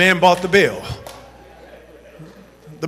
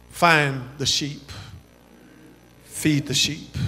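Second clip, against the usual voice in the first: quiet exhortation; 6 semitones lower, 10 dB quieter than usual. Real, not acted. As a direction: drop to an intimate hush.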